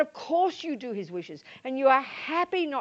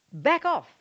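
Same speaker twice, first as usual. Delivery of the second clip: stern command; 5 semitones higher, 6 dB louder than usual. Acted. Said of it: "he says".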